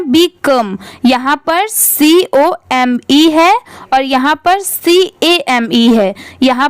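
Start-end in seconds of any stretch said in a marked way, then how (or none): 0.1-0.8 "become" said bi-KUM, short uh; correct pronunciation. Shown as a demonstration. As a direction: model "become" with a short second vowel. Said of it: "इसकी pronunciation है". ("become" को बिकम बोलना)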